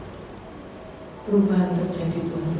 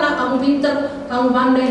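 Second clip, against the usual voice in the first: loud, high, insistent encouragement; emphatic praise; 6 semitones higher, 7 dB louder than usual. Retold or imitated. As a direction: drive the praise home with force. Preacher retells praise, rising passion. (pujian lantang dan bersemangat)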